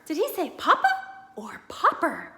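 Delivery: broadcast it from far away; admiral on radio. Acted. Admiral Drake greeting Mister Popper over the radio, announcer-like.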